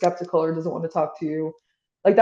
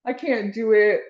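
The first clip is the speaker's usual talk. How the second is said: a retold cry of defeat, pitched up; frustrated despair; 4 semitones higher than usual. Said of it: "I remember just getting so frustrated".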